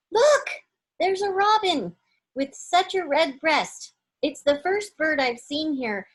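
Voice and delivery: high, loud delighted cry; excited discovery. A narrator's reading. Lucy spotting the robin, high and thrilled. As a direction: point it out with sudden delight.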